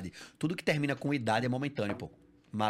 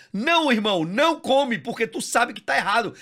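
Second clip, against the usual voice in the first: louder, higher firm telling-off; stern scolding; 8 semitones higher, 7 dB louder than usual. Real, not acted. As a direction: scold him firmly. Repreende o ouvinte. (bronca firme e alta)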